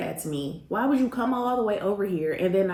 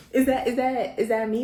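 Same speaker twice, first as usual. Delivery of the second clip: laughing question; 4 semitones higher than usual. Real, not acted. Laughing at the bathroom role play.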